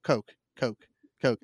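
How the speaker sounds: "Coke" with a slightly nasal Philly O. Shown as a demonstration. Host testing his own accent on "Coke", Philly O. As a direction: say "Coke" with the Philadelphia O, evenly. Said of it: "apparently I'm saying it Philly".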